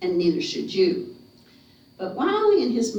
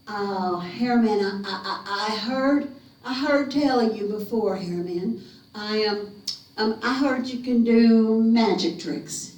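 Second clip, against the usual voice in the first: hesitant, stammered flattery; acted timid boy buttering up a monster; nervous stalling. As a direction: stumble over "I" while thinking fast. Scared Wiley stalls the monster.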